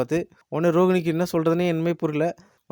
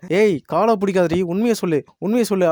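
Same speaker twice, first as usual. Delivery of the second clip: mock scolding, louder and higher in bursts; acted angry demand; 4 semitones higher, 4 dB louder than usual. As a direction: imitate a furious woman ordering a confession. (கோவமா அதட்டுற மாதிரி)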